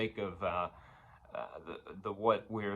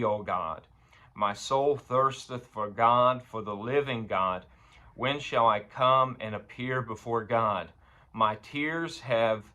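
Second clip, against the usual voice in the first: scripture reading. Acted. Preacher reading David's psalm to the congregation, measured scripture reading. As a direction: read the verse with weighted pauses.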